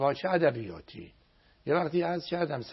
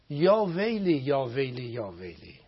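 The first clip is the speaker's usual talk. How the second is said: fading cry of woe; slower than usual. Shown as a demonstration. Cleric showing viewers how to call out in the prayer, fading. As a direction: cry out, then let it die down. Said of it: "بگو".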